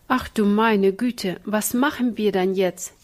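mock lament over the ruined cake; wailing. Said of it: "jammerte Ina".

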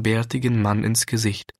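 plain reading voice

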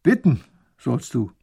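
put-on loud, gruff command from an old man; growled. A narrator's reading. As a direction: growl the demand at him. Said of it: "Der Bärtige knurrt".

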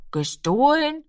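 put-on high questioning child voice; a small boy puzzled by the word; lightly voiced boy, wondering; surprised child. A narrator's reading.

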